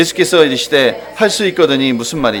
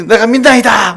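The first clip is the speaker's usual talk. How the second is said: loud cry of faith; 8 semitones higher, 6 dB louder than usual. Retold or imitated. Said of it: "이렇게 또 얘기한 거예요".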